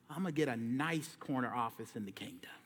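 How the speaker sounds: hushed, breathy-free whisper of a dreamer. Retold or imitated. Disciples imagining their corner office, whispered. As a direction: whisper it like a secret wish.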